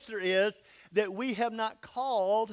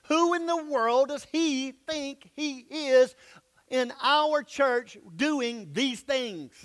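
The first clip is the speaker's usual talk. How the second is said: slow, raised, offended drawl; drawn-out indignation; 4 semitones higher, slower than usual. Retold or imitated. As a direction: stretch out the outrage word by word. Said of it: "That's a good way to say it".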